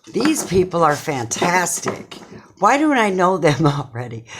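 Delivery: excited. Retold or imitated. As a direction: gush over them, laughing at the end. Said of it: "Very excited".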